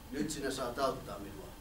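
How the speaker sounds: slow, low, sly wolf voice. Acted. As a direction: coax the boy, drawing it out. Wolf speaks slowly.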